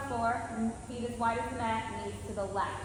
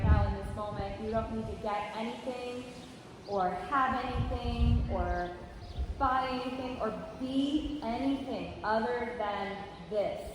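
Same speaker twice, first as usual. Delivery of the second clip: guided meditation. Acted. Leads a body-scan meditation.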